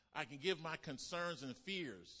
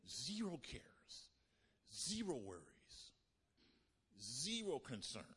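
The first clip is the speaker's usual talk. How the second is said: slow breathy whisper; slower than usual. Acted. Preacher whispering the lesson to the congregation. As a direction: lean in and whisper it.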